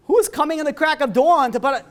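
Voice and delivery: loud, high-pitched mock disbelief; incredulous outburst. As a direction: act out baffled indignation. Acted indignant disbelief in story.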